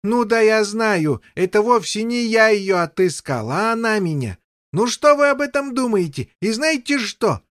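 a touch of gleeful rushing king; bursting with delight. Acted. King tells the knights of his luck, gleeful. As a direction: gush it out, overjoyed. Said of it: "продолжал распираемый восторгом король".

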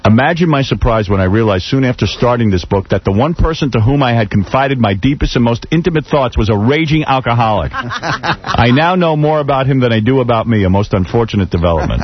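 reading a quote. Acted. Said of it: "Here is a great quote".

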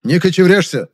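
mocking, condescending scoff; scornful snort. A narrator's reading. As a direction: brush him off with contempt. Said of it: "фыркнул Завадский".

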